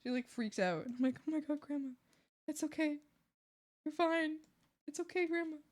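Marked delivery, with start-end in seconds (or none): 1.3-5.6 soft, slightly raised reassuring voice; gently calm a flustered grandma down; quiet acted reassurance; soothing grandma.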